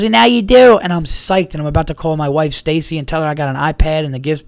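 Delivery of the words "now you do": excited buddy. Retold or imitated. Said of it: "He goes".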